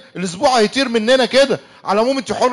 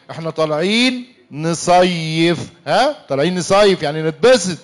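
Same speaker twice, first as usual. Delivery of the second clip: slow sweet coaxing; 3 semitones lower, slower than usual. Acted. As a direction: sweet-talk her into enjoying it. Husband coaxing wife gently.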